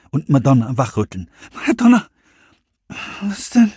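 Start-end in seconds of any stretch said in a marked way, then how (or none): 1.7-2.1 hoher, lauter Ruf nach der Freundin; dringender Ruf. Acted. Serenity weckt Freundin dringend. 3.2-3.7 verschlafen, höher gemurmelt; verschlafenes Murmeln. Acted. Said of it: "murmelte ihre Freundin verschlafen".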